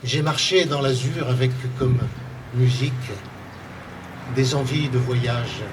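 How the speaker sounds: measured poetry reading in short phrases, with pauses; poem recital. Acted. Author reads a poem on forced migrant workers to an audience, measured recital. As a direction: recite it as verse, pausing after each phrase.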